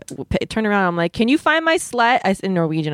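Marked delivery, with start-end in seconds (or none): 1.1-2.2 high-pitched, drawn-out mock call; calling back to someone on a hill; retold yelling. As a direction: call out in a mild, high yell without much added volume. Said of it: "I'm yelling".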